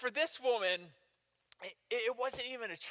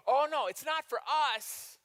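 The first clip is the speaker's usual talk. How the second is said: fake piety; 3 semitones higher than usual. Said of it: "They go".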